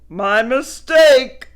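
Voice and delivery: loud, slow, grudging; eye-rolling grudging apology; sarcastic. Acted. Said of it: "rolled his eyes".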